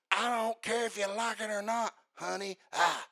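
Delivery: lightly voiced smug preacher; a hint of a cocky preacher brushing you off; arrogant preacher. Mocking arrogant preachers to the congregation, lightly smug. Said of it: "They say things like this".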